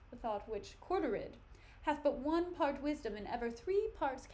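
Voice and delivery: measured theatrical verse delivery, swelling on the questions; dramatic Shakespeare reading. Acted. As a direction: read the soliloquy like a stage actor. Reads Hamlet soliloquy aloud.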